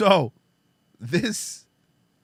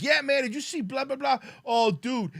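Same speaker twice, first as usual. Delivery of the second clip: higher goofy bro voice; lightly voiced slacker bros; mock bro chatter; 10 semitones higher than usual. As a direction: imitate guys goofing around. Mocking goofing attendants.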